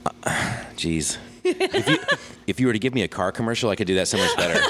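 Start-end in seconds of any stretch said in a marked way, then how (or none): 1.4-4.6 laughing while talking. Real, not acted. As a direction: speak through a laugh. Laughs at the radio voice request.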